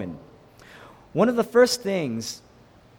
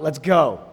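"go" punched louder, then falling; stress on GO; 6 dB louder than usual. Shown as a demonstration. Preacher showing the mistaken emphasis, stress on "go". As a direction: hit "go" as the whole point. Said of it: "the emphasis is not".

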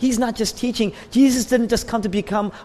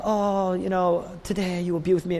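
mock sentimental; 4 dB quieter than usual. Shown as a demonstration. Mocking a sentimental reading, soft and sugary. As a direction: gush it like a greeting card. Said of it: "He's not trying to sentimentalize his death".

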